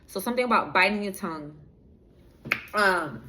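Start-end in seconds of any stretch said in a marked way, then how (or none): 0.0-1.5 quick, tumbling aside; speaking too fast. Real, not acted. Streamer remarking on almost biting their tongue, speaking too fast. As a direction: rush through it, nearly tripping over the words. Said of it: "I'm speaking a little fast".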